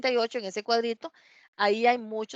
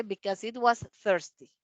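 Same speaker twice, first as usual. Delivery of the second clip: slow model reading. Shown as a demonstration. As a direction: slowly read English phrase. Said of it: "o nada más donde dice".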